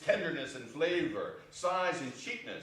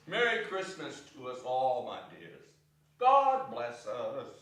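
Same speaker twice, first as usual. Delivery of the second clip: tender toast; 4 semitones lower than usual. Acted. Bob's toast to family.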